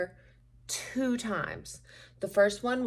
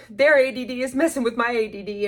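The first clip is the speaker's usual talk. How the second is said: laughing; 3 semitones higher, 7 dB louder, faster than usual. Real, not acted. Laughing at her ADD.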